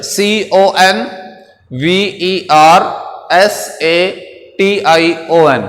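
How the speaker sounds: each letter drawn out, very slowly; slow spelling out. Shown as a demonstration. Teacher dictates spelling to class, very slow letters. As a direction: dictate the letters slowly so they can write. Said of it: "कन्वर्सेशन कहते हैं गुफ्तगू को".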